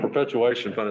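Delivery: muffled behind a mask; speaking through a mask; through a face mask. Real, not acted. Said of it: "It's hard to talk with a mask on".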